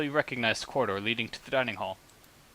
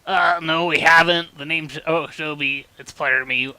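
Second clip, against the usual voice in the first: higher, louder lady's voice; female character voice; 3 semitones higher, 5 dB louder than usual. Acted. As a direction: play her bright and eager. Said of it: "that was Shinja that was talking".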